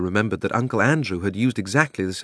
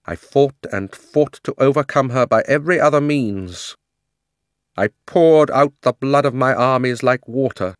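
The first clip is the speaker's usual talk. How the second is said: loud, high, imperious queen voice; haughty queen's loud grievance; proud queen; 5 semitones higher, 5 dB louder than usual. A narrator's reading. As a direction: rant like a wronged tyrant queen.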